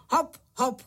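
two bouncy, separate beats; rhythmic call. A narrator's reading. Pytlík trots with crickets on his back, calling in rhythm. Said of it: "říkal cvrčíčkům do taktu".

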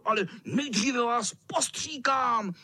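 high hissing villain cat, whispered start then calling out; hissing mean cat. A narrator's reading. Cat threatens the boys, high hissing menace. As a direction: hiss it like a nasty tomcat about to pounce. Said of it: "sýpal kocour".

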